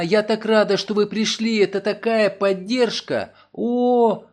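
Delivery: Nancy gushing to Mason, high and bright; excited relief. Acted. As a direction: gush with gratitude. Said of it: "воскликнула она".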